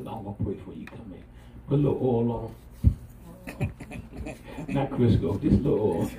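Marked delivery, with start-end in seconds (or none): 0.0-1.2 soft reply. Retold or imitated. Parent answers child softly.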